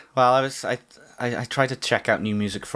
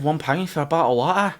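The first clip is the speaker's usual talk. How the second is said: "water" with a glottal stop, higher; Scottish accent; 5 semitones higher than usual. Retold or imitated. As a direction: quote in a Scottish voice. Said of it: "The Scottish guy".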